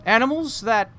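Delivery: a floppy straw man puzzling it out; scarecrow voice. Acted. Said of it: "a different man's voice".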